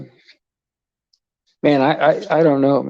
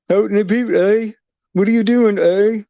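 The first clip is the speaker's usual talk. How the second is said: mock Canadian accent; 6 semitones higher than usual. Joking about Canadians to a friend, mock Canadian accent. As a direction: poke fun in a jokey Canadian accent, eh at the end. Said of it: "if you're gonna tell a joke, except for, like".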